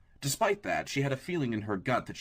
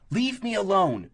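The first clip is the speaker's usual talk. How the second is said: high, loud, slow warning; 10 semitones higher, 7 dB louder, slower than usual. A narrator's reading. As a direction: warn him off hard. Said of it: "she warned".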